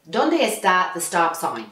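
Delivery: put-on slow Spanish-accented teacher. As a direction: drill it like a driving teacher. Her character's Spanish teacher line.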